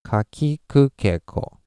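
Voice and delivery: Ka, ki, ku, ke, ko connected, high start falling away at ko; joined-up ka-ki-ku-ke-ko with pitch shaping; pitch demonstration. Shown as a demonstration. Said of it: "pitch is what we use".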